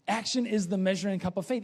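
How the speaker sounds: brisk full-voice repeat; fast and firm; fast, firm congregational recitation. Shown as a demonstration. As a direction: say it together, quickly. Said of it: "you know this".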